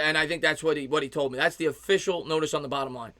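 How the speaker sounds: ordinary delivery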